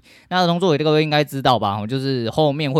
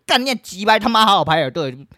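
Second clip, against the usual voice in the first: loud, higher imagined shout; imagined yell; 9 semitones higher, 5 dB louder than usual. Retold or imitated. What he wanted to shout at the crowd, loud imagined yell. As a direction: yell it the way he wished he had. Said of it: "只想大吼说".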